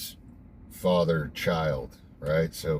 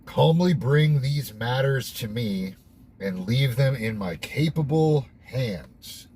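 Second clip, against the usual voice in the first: raised, measured read-aloud voice; 4 semitones higher, slower than usual. Real, not acted. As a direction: read it out slowly and higher, word by word. Reads the text aloud, commenting between.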